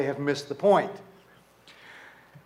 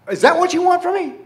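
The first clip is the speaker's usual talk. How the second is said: high, louder, quick acted protest; indignant; 13 semitones higher, 5 dB louder, faster than usual. The people challenging God, indignant. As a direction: fire it back as an offended question. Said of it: "sometimes I'm angry".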